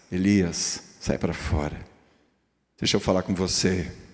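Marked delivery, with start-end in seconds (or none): 0.1-1.7 meek, tender, soft, gentle coaxing voice. Acting out the Lord calling Elias out of the cave: imitating a gentle, soft voice. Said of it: "Ele vem com uma voz gostosa, mansa".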